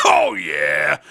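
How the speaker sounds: a sudden burst of thrill on the turbo; excited shout. Acted. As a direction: whoop it out as the board takes off. Rider shows off the turbo boost.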